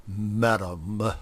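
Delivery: Madam forced out through clenched teeth; between his teeth. Acted. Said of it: "said Grover between his teeth".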